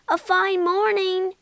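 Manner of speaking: high, cheery call of greeting; friendly greeting. A narrator's reading. Barge woman greeting a passing washerwoman, friendly and high. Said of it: "her friendly greeting".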